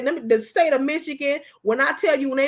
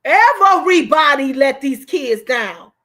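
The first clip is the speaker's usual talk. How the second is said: loud, drawn-out indignation; slow it right down and project every word loudly; outraged outcry; 7 dB louder, slower than usual. Real, not acted. Outraged rant about neglected children.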